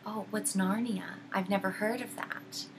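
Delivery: lightly voiced sly witch, a little hushed; mildly sly, innocent-sounding question; sly feigned innocence. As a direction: slyly play at not knowing, understated. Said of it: "she starts very slyly saying".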